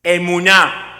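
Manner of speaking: "emuná" in clear syllables, weight on the final "ná"; model pronunciation. Shown as a demonstration. Preacher has the congregation repeat a new word, firmly modelled "emuná". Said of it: "Repítalo conmigo".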